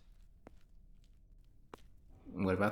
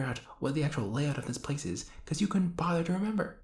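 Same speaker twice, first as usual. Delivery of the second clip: exasperated rant; 3 semitones higher than usual. Acted. Hero scolding the monarch about his confusing castle, building into an exasperated rant.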